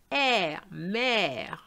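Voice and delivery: Air, then mère, both on an open 'eh'; open French è. Shown as a demonstration. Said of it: "you have to open your mouth".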